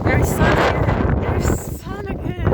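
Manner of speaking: high, loud outburst over the wind; exclaiming in disbelief. Real, not acted. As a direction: call it out, amazed by the change. Sudden sun after fog and rain.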